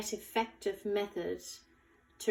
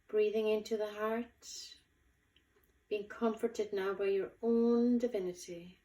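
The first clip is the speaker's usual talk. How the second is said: guided meditation. Acted. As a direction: guide them gently, unhurried, lingering on key words. Leads a guided visualization.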